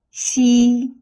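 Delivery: "Xi" with a whistling hiss through a grin. Shown as a demonstration. Teacher shows how to breathe out the sound, whistling high xi. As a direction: grin and hold "Xi" high and level. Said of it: "like whistling with a grinning mouth".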